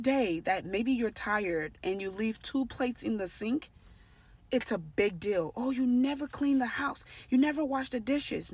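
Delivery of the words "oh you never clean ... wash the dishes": raised-pitch imitation of a nagging partner; mock accusing. Narcissist scolding partner over two plates in the sink, mock accusing. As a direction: mimic a partner's blaming complaint.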